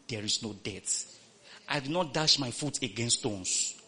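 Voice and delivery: low, soft muttering of scripture under the breath. Shown as a demonstration. Preacher showing the congregation how to mutter scripture, soft and low. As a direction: murmur the verses to yourself. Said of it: "You quote scripture".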